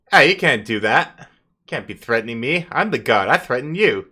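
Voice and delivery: cocky hellhound. Acted. Hellhound guard boasting to intimidating party, loud and cocky. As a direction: brag like a petty god. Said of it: "it's like".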